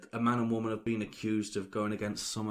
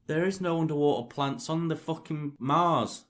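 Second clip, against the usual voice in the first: heated shouting; 7 semitones higher, 7 dB louder than usual. Real, not acted. Heated argument about Mars.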